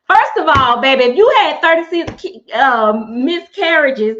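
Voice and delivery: loud, indignant first of all; loud scolding disbelief; incredulous outrage. Real, not acted. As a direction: call it out loudly in disbelief. Outraged at a scam message.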